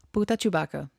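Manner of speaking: a light take on Stitch's alien words; mild Stitch impression; Stitch alien phrase. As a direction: say it as Stitch would, lightly voiced. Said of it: "what it sounds like".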